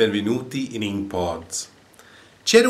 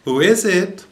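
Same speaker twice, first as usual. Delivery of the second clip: high, louder parrot call; 9 semitones higher, 6 dB louder than usual. A narrator's reading. Parrot calling out to the plumber at the door, high call. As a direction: squawk it like a parrot. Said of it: "The parrot called out".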